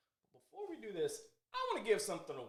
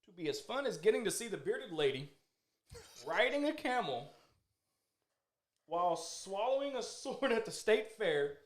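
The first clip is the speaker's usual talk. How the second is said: ad read. Shown as a demonstration. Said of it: "this is an ad straight off of their website".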